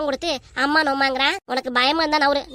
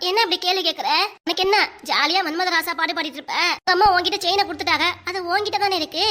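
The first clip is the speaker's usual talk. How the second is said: higher, tearful indignant complaint; fake-weepy reproach, pitched up; put-on crying; 3 semitones higher than usual. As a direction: wail accusingly through pretend tears. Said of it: "இப்ப எதுக்கு இப்படி அழுவுறீங்க?".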